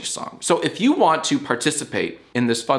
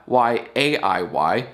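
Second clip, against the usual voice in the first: spelled out slowly; slower than usual. Shown as a demonstration. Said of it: "And spell it right".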